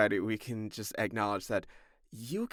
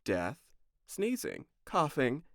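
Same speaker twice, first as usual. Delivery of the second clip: cough syrup ad; 2 semitones higher than usual. Pretend. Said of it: "It's like a cough syrup ad".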